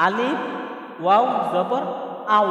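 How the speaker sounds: আউ said as one blended sound; joined pronunciation. Shown as a demonstration. Teacher showing viewers how alif and waw join, joined pronunciation. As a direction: spell it out, then run আ and ওয়াও together as আউ. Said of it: "উচ্চারণ হয়ে ওয়াও উচ্চারণ হবে, একসাথে মিলিত হবে".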